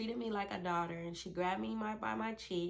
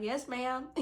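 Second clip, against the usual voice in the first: small, higher obedient reply; meek yes ma'am; 5 semitones higher than usual. Retold or imitated. Answering the nurse's promise with a meek higher yes ma'am. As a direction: answer like a dutiful child, a bit higher. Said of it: "I was like".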